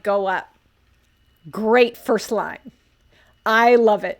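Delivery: loud, eager bursts of delight; excited gushing. Real, not acted. Streamer gushing to chat about the summary, loud and excited. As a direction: gush like a thrilled fan. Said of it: "I'm getting excited".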